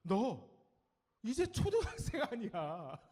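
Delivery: high, loud mock nag; nagging parent. Parent to a new middle-schooler, mock nagging. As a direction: pause after "you", then scold. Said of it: "또 이런 소리 들어요".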